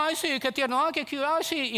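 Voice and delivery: high, cutesy mock gushing; mock cooing. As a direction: gush over it without meaning it. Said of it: "y no hizo nada". (arrullo burlón, agudo y empalagoso)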